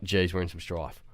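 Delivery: low, soft "Geez, we're in some strife."; muttered worry. Retold or imitated. Boy muttering as the teacher walks in, worried. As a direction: mutter it under your breath. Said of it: "And I was like".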